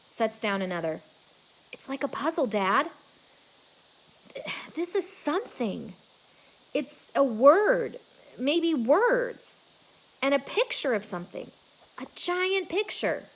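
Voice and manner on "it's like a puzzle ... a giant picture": excited realization. Acted. Julia realizing a puzzle.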